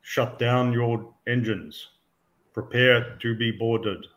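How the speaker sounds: slow, even robotic announcement. Acted. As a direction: speak like a ship's AI. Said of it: "it's a rather robotic voice".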